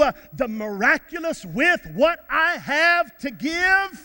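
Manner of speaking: driving pulpit cadence, rising at the end; impassioned preaching. Real, not acted. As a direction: build phrase on phrase to a rousing finish. Preaching, building to a climax.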